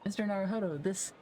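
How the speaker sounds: high, breathless and theatrical; dramatic. Acted. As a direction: overdo the amazed lawyer. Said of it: "how dramatic this guy is".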